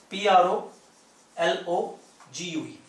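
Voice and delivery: spelling the word aloud; spelling out letters. Shown as a demonstration. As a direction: spell out पी आर ओ एल ओ जी यू ई slowly. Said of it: "ये एक word होता है प्रोलॉग".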